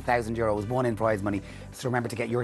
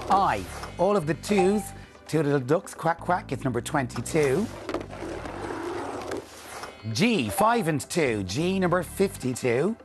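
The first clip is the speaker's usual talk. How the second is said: bingo caller. Acted. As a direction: call each number out clearly with pauses. Calls bingo numbers on TV.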